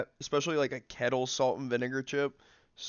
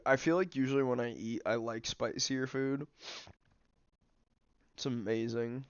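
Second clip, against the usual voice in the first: mouth full. Real, not acted. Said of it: "I'm sorry I've been munching on these".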